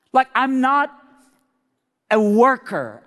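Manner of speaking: high-pitched overwrought woman; high, worked-up put-on voice; emotional cleaning lady. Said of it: "I'm just sorry to be emotional".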